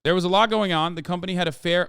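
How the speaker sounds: put-on light Icelandic accent reading a letter. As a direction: read it with a hint of an Icelandic lilt. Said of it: "it's hard to keep doing the accent".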